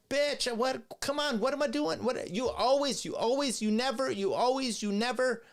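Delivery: high, squeaky mocking imitation of the husband. Streamer mocking the debater answering his wife. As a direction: whine back like a cornered husband. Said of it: "And he's like".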